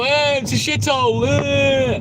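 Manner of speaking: lightly voiced whiny moaner; mock crybaby whine.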